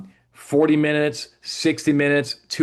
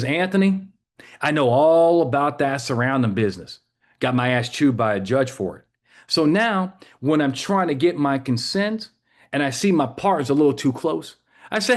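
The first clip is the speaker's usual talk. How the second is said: Texas drawl; 3 semitones higher than usual. Retold or imitated. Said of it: "your stereotypical Texas cop".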